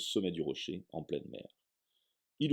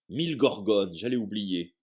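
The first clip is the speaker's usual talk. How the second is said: louder sudden exclamation; exclaiming; 5 dB louder than usual. Acted. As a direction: slap your forehead and blurt it. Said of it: "s'exclama Hagrid".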